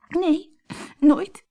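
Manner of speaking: put-on high girlish voice, tearful; a young girl answering through tears; sobbing Colombine. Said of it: "snikte Colombine".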